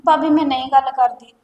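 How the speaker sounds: loud, anxious begging; desperate pleading. Acted. Girl loudly begs her sister-in-law to let her study. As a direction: plead hard not to lose college.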